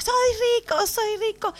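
mock yelling. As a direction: imitate someone calling out joyfully down the street. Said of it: "iba gritando por la calle".

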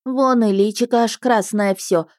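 mild lamenting cry; lamenting peasant woman. Acted. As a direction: fret over the lady's red face. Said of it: "запричитала женщина".

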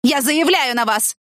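slow, high-pitched threat; mildly hysterical, drawn out; hysterical growl. A narrator's reading. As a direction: threaten shrilly, stretching the words. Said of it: "прорычала она истерично".

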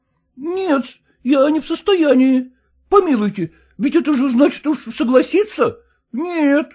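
put-on high, pleading, indignant voice of a fussy young husband; whining son-in-law. Son-in-law protesting to his father-in-law, high whining indignation. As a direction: squeal your outrage up high.

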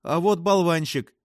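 mild excited yell. A narrator's reading. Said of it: "завопила Фрэнсис". (возбуждённый возглас, высоко и громче)

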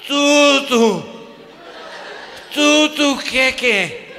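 high, loud stuttering tú tú; too shocked to form words; choking on panic; panicked stammer. Retold or imitated.

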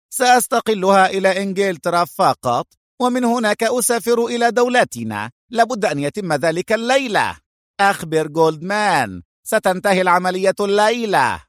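high-pitched, irate little boss; angry interruption. A narrator's reading. Short boss scolding his stupid men and giving orders, angrily. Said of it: "قاطعه القصير بغضب".

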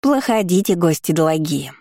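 bright eager little creature; cheerful gargoyle. Acted. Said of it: "жизнерадостно позвала Горгулья".

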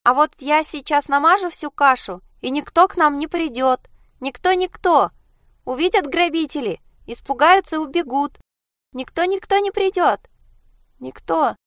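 put-on high, nervous chirpy child voice; cheerful. Little Zhenya tells mother nobody will come, nervously cheerful. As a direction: babble it brightly, over and over. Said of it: "Женя весело ответила".

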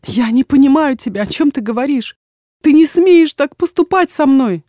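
put-on high, loud cry of a wronged young woman; outraged daughter. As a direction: let the hurt break into a shout.

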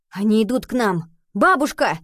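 high, loud frightened shout; alarmed cry. A narrator's reading. Boy warning grandmother of soldiers on the stairs, panicked shout.

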